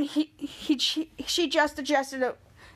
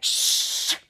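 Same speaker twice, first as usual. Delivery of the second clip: whispered shh; quick unvoiced shush. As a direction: hush him with a breathy shh. Henry hushes Captain Man.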